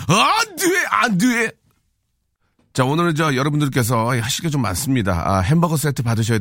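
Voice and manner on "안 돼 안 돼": high, hammed-up cry of refusal; mock protest. Host begging sponsors not to pull out, high mock-desperate cry. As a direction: wail it high in comic alarm.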